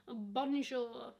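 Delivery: Yorkshire-accented French greeting. Shown as a demonstration. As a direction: say bonjour like a Yorkshire lass. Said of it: "I speak French with a Yorkshire accent".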